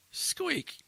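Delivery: high-pitched truck squeak; mimicked high squeak; imitated squeak. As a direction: squeal it like old brakes, fairly lightly.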